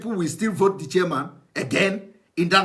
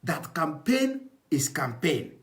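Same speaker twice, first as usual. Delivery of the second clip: drags out the phrase in slow mockery; slow mocking quote; 4 dB quieter, slower than usual. Commentator mocking the advisor's words, slow and scornful. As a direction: slows it right down to ridicule the advisor. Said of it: "to say this thing he said here".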